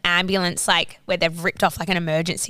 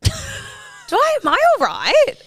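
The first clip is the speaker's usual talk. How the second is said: high, louder laughing question; laughing at herself; 5 dB louder, much slower than usual. Real, not acted. Laughing to her friend at her own obliviousness, high and giggly.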